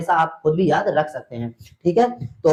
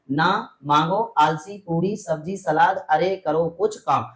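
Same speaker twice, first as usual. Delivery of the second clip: slow mnemonic; slower than usual. Shown as a demonstration. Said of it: "यहाँ पर ये trick लिखी हुई है".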